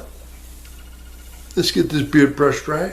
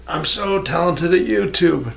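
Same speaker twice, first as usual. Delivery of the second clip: slow, dripping mock pride; sarcastic; 4 semitones higher than usual. Shown as a demonstration. Sarcastic boast about his own YouTube talent. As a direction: oversell it so nobody believes it. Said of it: "No, that's sarcasm".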